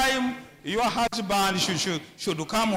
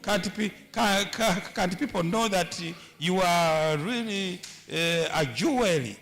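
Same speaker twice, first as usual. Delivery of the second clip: tender comforting; 3 semitones lower than usual. Retold or imitated. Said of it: "she should touch you and say".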